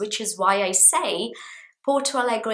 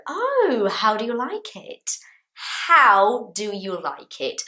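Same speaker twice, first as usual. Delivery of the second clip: eager question; 3 semitones higher, 3 dB louder than usual. Shown as a demonstration. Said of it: "And I'll say to you".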